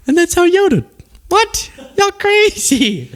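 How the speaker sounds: high, laughing disbelief. Real, not acted. Host teasing viewers through laughter, high pitched. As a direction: tease the chat while laughing. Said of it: "laughing at the chat".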